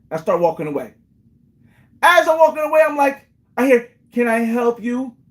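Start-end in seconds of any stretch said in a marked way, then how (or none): 4.1-5.1 put-on slow, drawn-out elderly woman voice, calling out. Retelling knocking on a door and hearing an unexpected reply, in an old lady voice. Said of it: "and some old lady voice".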